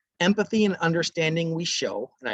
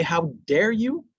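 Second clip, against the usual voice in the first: slow, higher mock outrage; indignant outburst; 6 semitones higher, slower than usual. Teacher playing a parent hurt by their child, mock indignant. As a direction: spell out each word like a shocked parent. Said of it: "Do you wanna say".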